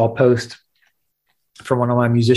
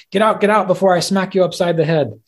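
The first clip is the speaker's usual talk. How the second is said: much higher, annoyed shouting threat; angry guru; 7 semitones higher than usual. Acted. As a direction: chase him out of the bathroom. Guru angrily chases student out.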